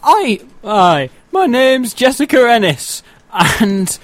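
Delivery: put-on light Sheffield accent; a hint of Northern English. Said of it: "she's got a Northern accent".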